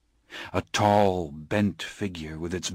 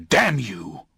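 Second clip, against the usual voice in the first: mild mock shout. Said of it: "I shouted".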